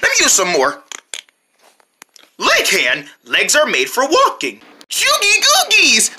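upbeat toy commercial voice; TV ad read. Acted. Kids playing pretend toy commercials, upbeat ad voice. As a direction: pitch the product like an ad.

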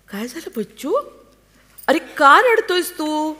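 high, startled mother's cry, slowing down; alarmed. Acted. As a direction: rush to the crying child in alarm. Mother finds child crying. (घाबरून, उंच आवाजात)

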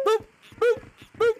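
high, playful little boops; squeaky baby talk while booping; cute boop noises. Pretend. Booping a pet penguin.

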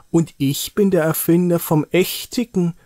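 proud little boast; proud announcement. Acted. Niki claiming he invented the real Christmas star, proud. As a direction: declare it with pride. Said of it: "sagt Niki stolz".

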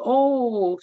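a high, drawn-out North Carolina "Oh"; North Carolina accent. Retold or imitated. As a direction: exclaim it like a delighted North Carolina lady. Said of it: "she had this wonderful North Carolina accent".

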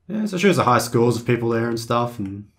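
groggy hungover voice; sluggish, worn-out delivery. Real, not acted. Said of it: "Sorry for being hungover".

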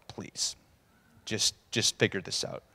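soft whisper, urging; whispered plea. Retold or imitated. Mother whispering to her son to fix the wine, pleading. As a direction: hush it, begging him privately. Mary pleading quietly with Jesus.

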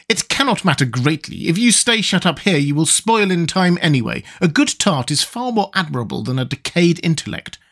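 high, even character voice; high-voiced tin man making his case; unworried Tin Woodman.

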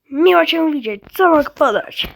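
bright, loud customer-service welcome; cheery cashier greeting. Acted. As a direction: greet the customer like an eager shop clerk.

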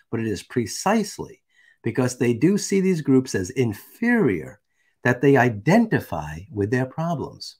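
slow, measured read-out; emphatic document reading; reading aloud. Acted. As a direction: read the text deliberately, leaning on key words. Reads a manifesto aloud.

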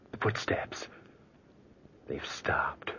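tense hushed whisper. Acted. Charles hearing the footsteps stop, tense whisper. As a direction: hold your breath and whisper. Listens to uncle upstairs.

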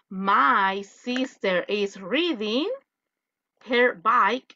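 slow sentence with "reading" as REE-ding; drawn-out wrong example, "reading" for riding; mistaken student sentence. Acted. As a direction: say it slowly, putting EE in "reading". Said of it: "Porque si usted me dice".

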